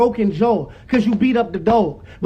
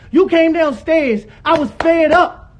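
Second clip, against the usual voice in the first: heated, emphatic retelling; raised voice; 2 semitones higher than usual. Real, not acted. Son accusing former manager of starting a fight, raised voice. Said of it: "Stop yelling".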